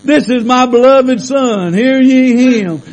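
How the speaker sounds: playful mock Chinese accent for laughs. Shown as a demonstration. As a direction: put on a joking Chinese accent. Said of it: "You know what it says in Chinese?".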